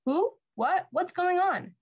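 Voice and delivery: rising, flustered cries of confusion; startled stepmother. Acted. Stepmother caught out as Javier names Adelita, startled and high. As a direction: caught off guard, pitch jumping up.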